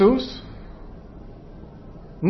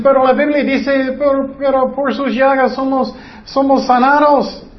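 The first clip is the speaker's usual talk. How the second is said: higher, mock-insistent objection; mocking quote; 5 semitones higher than usual. Preacher voices a believer's objection, higher mock voice. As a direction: play the believer quoting scripture back. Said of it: "Y muchos dicen".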